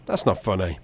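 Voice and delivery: low, straight-faced rebuke; deadpan disapproval. Retold or imitated. Unamused dad to laughing son, deadpan rebuke. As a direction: deliver it unamused, pitched a little down. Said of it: "he just straight-faced as anything".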